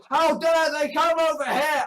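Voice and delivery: put-on indignation, pushed out forcefully; mock outrage. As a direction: parody of an indignant objector. Imitating outraged UKIP supporters.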